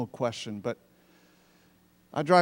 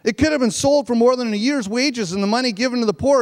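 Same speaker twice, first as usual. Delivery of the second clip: scorn the wasted perfume; indignant; 6 semitones higher than usual. Acted. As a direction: disciples scolding the woman, high and indignant. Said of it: "saying indignantly".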